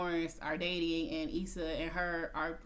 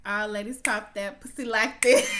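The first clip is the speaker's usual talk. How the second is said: DJ hype call; 7 dB louder than usual. Retold or imitated. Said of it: "we hear".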